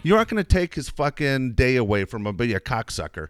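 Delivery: high, heated rant at the waiter; angry telling-off. Retold or imitated. Father defending his son to the waiter, heated high rant. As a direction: tear into him.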